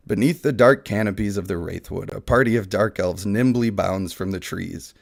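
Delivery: understated fantasy narrator reading; dramatic reading. Acted. Streamer reads fantasy slides to chat as a dramatic narrator. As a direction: read it like the opening of an epic tale.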